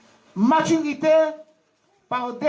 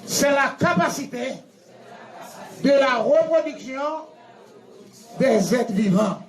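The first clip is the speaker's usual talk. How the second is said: measured chunks, pausing for the group to echo; feed each phrase to be repeated; teacher drilling a definition; leading a recitation. Shown as a demonstration. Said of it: "répétez plus fort".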